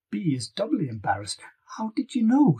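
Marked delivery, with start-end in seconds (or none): 1.8-2.6 spluttering. A narrator's reading. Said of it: "she splutters".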